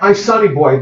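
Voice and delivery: a hint of a fond mother calling her son; lightly voiced mother. Actress who played his mother, lightly voiced and fond. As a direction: sing it out fondly like a proud mom. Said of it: "she was like".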